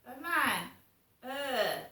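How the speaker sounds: loud mock groan of disgust. Imitating a bloke jeering as she walks past, mock disgust. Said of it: "you can hear somebody go".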